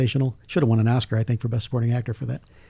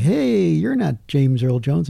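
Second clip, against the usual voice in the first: long swooping "Hey", then doubt; mock fan call; 3 semitones higher, much slower than usual. Fans greeting his friend out of the car, drawn-out mock call. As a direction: imitate puzzled onlookers, stretching the first word.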